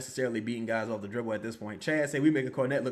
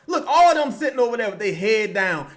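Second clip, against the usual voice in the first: laughing; 7 semitones higher, 8 dB louder than usual. Real, not acted. Laughing at the bench.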